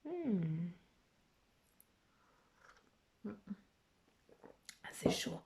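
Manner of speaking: softly, between sips of hot tea; sipping tea. Real, not acted. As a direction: talk right after a sip. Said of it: "je bois mon thé pendant que, pendant que je lis".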